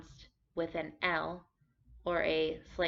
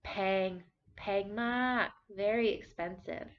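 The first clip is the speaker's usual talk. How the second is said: haggling complaint, raised; mock bargaining; 3 semitones higher, slower than usual. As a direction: protest the price at the market. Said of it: "you say".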